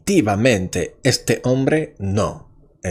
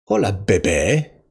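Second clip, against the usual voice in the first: put-on smooth boyfriend voice. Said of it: "dice el hombre".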